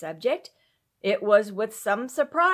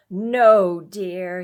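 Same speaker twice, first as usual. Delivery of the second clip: kind voice; 2 semitones lower, 10 dB louder than usual. A narrator's reading. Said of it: "he answered in a kind voice".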